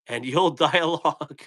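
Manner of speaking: laughing while reading the line; words breaking into laughter. Real, not acted. Laughing through joke punchline.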